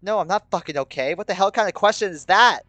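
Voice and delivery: building outrage; snapping. A narrator's reading. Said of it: "Something inside me snaps".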